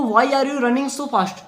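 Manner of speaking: a hint of a questioning jackal; jackal's voice. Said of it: "सियार कह रहा है।".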